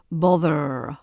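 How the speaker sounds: "bother" drawn out, ending in a soft schwa. Shown as a demonstration. Teacher shows learners the ending, "bother" with soft schwa. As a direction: stretch "bother", letting the final er stay a soft uh. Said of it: "final er at the end is the soft schwa".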